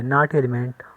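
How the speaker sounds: slow, drawn-out reading of the notation; slow dictation. Shown as a demonstration. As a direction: read the symbol aloud slowly. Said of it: "ऐसे दिखाएंगे".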